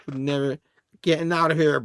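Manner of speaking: playfully added menace; hammed-up villain threat. Comic reader hams up Limbo's threat, mock villain. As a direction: repeat it as a mock villain, capped with a laugh. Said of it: "he doesn't say it like that, but, you know, I added that".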